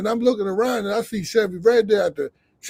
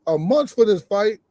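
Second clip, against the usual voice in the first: panicking; 3 semitones higher than usual. Retold or imitated. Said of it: "now I'm panicking".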